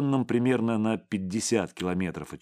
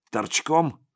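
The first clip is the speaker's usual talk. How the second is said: higher-pitched taunting question; openly mocking; 7 semitones higher, 3 dB louder than usual. A narrator's reading. Man on the phone taunts his caller, mockingly. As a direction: needle him with undisguised mockery. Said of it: "не скрывал насмешки".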